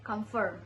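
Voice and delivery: "comfort," with a full "for"; mistaken comfort part. Shown as a demonstration. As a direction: say "comfort," as "com-for". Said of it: "I said".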